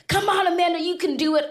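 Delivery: high, coaxing mother's voice; encouraging mom. Retold or imitated. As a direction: cheer the child on like a mom. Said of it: "how dinners were spent at my mom's house".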